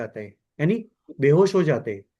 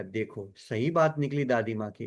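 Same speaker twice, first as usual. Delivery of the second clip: resigned mock quote; 8 semitones lower, 6 dB quieter than usual. A grown child admits grandma was right, said low and resigned. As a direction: lower and softer, a resigned sigh of defeat.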